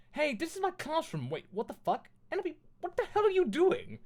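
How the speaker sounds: high, scandalised voice; outraged teacher. Acted. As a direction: build to an indignant yell. Teacher catches them in classroom.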